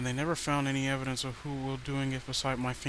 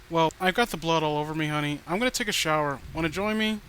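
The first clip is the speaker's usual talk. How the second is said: louder, teasing invitation; playfully menacing, a little louder; creepy flirty killer; 3 semitones higher, 6 dB louder than usual. Acted. Killer's creepy teasing phone call.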